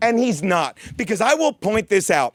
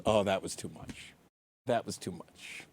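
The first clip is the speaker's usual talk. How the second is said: very soft, low, off mic; realizing he went too far, softly; quiet aside; 14 semitones lower, 16 dB quieter than usual. Real, not acted. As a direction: mutter it to yourself. Self-reprimand aside.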